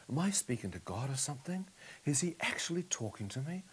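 soft questions rising at the end; hushed wonder. Retold or imitated. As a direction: wonder it aloud quietly, as a retold thought. Wondering if God is speaking.

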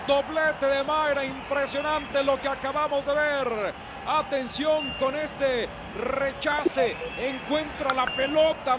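high, excited goal call; breakneck goal commentary. Real, not acted. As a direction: stretch the scorer's name out. (narración de gol emocionada)

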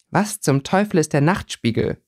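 puzzled, never heard of it; confused. Acted. Girl asks about the strange newspaper, baffled. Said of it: "fragte Winona verwirrt".

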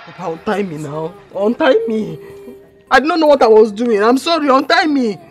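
high, loud, insistent begging; urgent pleading. Acted. Tied-up daughter begging Papa, urgent pleading. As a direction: build from a request into a loud plea.

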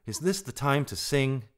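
indignant rebuke; angry. A narrator's reading. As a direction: demand it crossly, voice lifted. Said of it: "said Rikki Tikki angrily".

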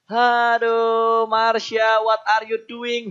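exasperated outcry. Real, not acted. Caster reacts to misplay.

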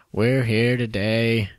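slow, solemn funeral-speech voice; a president at a funeral, slowly. Shown as a demonstration. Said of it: "president giving a speech at a funeral".

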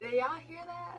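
laughing through words. Real, not acted. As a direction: giggle while asking. Both laughing.

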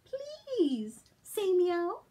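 drawn-out begging please; slow pleading. Acted. The reader slowly begs the dog to meow.

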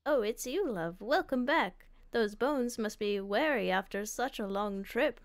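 lightly voiced elderly character; a hint of an old grandparent; old person voice. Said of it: "they both have the same old person voice".

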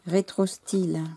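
usual speaking voice

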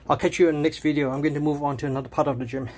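panting mid workout; breathless and a bit fast; out of breath. Real, not acted. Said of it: "I apologize if I sound like I'm panting".

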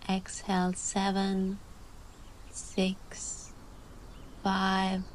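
calm voice. Real, not acted. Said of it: "I'm gonna dive into my calm voice now".

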